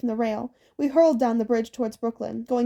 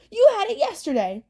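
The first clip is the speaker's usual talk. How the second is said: high, squabbling crone voice; cranky hag screech; 8 semitones higher, 3 dB louder than usual. Acted. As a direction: snap at her sister like an old witch. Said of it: "Tempest screeched".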